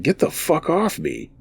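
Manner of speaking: mild, high-pitched yell; narrator's restrained version of a yell. A narrator's reading. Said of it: "I was just yelling".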